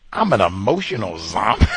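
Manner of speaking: incredulous, laughing it off; laughing disbelief. Real, not acted. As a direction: laugh while repeating it in disbelief.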